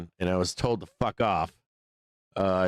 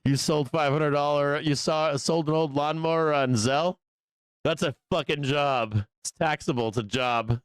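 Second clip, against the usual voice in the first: mock White House official; 5 semitones higher than usual.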